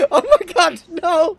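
terrified shriek. Real, not acted. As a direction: scream out in real fright. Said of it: "That was fucking terrifying".

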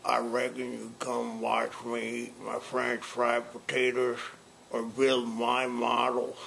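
talking around a cigar; words mumbled past a cigar; cigar in mouth. Shown as a demonstration. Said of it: "Let's try it with a cigar first".

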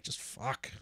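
whispered, resigned sigh of a curse; whispered resignation. Retold or imitated. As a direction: breathe it out, totally defeated. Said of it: "the face of Justin being like".

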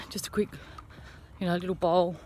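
talking around a chewy; mouth full. Real, not acted. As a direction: speak with food in your mouth. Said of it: "I got a chewy in my mouth".

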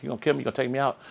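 high, daring taunt at the demons; defiant challenge. Retold or imitated. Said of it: "I was so serious".

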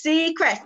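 Seacrest said as "sea" plus "crest"; company-name pronunciation. Shown as a demonstration. Host corrects viewers on the company name, Seacrest pronounced sea-crest. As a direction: say Seacrest with a clear "crest" at the end. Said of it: "It's C and then Crest".

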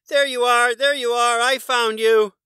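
very high, loud shout; triumphant shout. A narrator's reading. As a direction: crow it out in triumph. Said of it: "Morris shouted".

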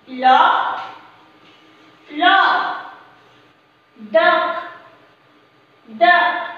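single words with long pauses for repeating; read-after-me drill. Shown as a demonstration. Teacher has children read after her without spelling, measured word drill. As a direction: model each word alone, then wait. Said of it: "read after me without spelling".

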